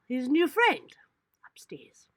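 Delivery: unvoiced whisper. Real, not acted. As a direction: whisper the last words. Whispered aside.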